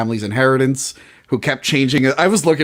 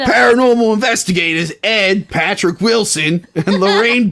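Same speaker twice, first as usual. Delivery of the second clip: a hammed-up British read, pitched higher; mock British accent; 6 semitones higher than usual. Reading the synopsis aloud for a laugh, in a put-on British accent. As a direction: play the pompous British announcer. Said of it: "I gotta do it with a British accent".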